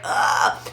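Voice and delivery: throaty unvoiced "ugh"; re-enacted reluctant groan; weary groan. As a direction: groan at having to get up. Reluctantly gets up from tub.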